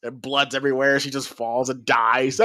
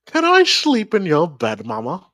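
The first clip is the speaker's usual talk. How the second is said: put-on butchered British accent. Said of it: "I butchered that British accent".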